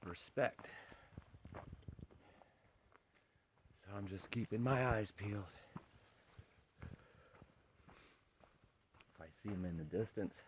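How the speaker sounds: quiet and wary, so the cub won't hear; softly spoken alert whisper-talk in the woods; hushed. Real, not acted. Heard a bear cub nearby.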